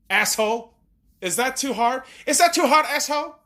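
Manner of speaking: a mock Asian accent, pitched well up; ranting at the store staff in a put-on Asian accent. Angry customer rants at the merch store staff, mock Asian accent. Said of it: "reverting back to the Asian accent".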